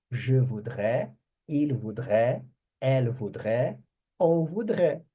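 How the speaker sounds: "voudrais" and "voudrait" sounded identically; same-pronunciation demo. Shown as a demonstration. Teacher showing the verb forms sound alike, French demo. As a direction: model each pronoun with the same "voudrais" ending. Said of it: "a pronúncia é a mesma".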